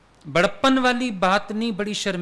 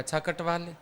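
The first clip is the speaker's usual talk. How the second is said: husband's reply; 4 semitones lower, 8 dB quieter than usual. Retold or imitated. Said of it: "वो husband बोलता है".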